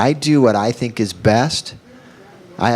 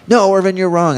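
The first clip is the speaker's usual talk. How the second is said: higher, louder mock protest; protesting students; 10 semitones higher, 3 dB louder than usual. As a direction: object loudly, as if correcting the teacher.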